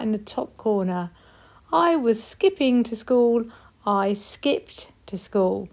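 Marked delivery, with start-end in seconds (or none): 3.9-5.7 slowed down, each word clear; slow modelled past tense. Shown as a demonstration. Teacher modelling skipped slowly for the class. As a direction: spell it out with your voice. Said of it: "use ed for skipped".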